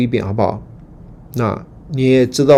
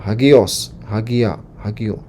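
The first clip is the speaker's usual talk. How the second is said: model reading; slower than usual. Shown as a demonstration. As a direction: clear demo of the word forms. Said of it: "你就这样读啊". (示范读法)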